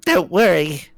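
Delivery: high-pitched stoner voice; high, spaced-out reassurance; Ford. Acted. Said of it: "Ford whispers".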